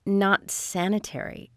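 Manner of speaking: slow, incredulous repeat; disbelieving echo. Acted. Officer repeats agent's odd verdict on skull drinking, disbelieving. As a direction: echo it slowly, taken aback.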